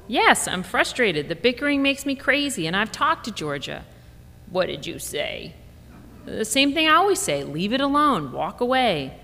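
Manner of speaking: a mother fed up with bickering; mild worn-out mom venting; exasperated mom. Retold or imitated.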